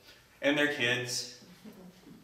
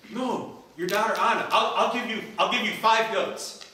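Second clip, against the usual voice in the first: higher, eager bidding; a lovestruck suitor bidding higher; eager bid; 7 semitones higher, 4 dB louder than usual. Acted. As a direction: push your offer, keen and quick. Johnny bids for Anna.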